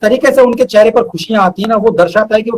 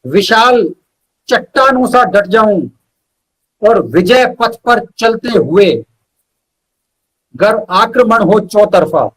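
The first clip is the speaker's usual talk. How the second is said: measured verse with pauses between phrases; poem recital; slower than usual. Acted. Poet reciting his own verse to the host, measured poetry recital. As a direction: recite each line slowly and weigh it.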